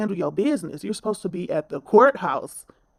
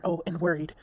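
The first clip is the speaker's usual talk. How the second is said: mocking whiny tone. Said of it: "you wanted to throw in there".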